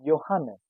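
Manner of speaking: Johannes said "yo-HAH-nes"; J of Johannes sounded as y; German pronunciation. Shown as a demonstration. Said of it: "as Y".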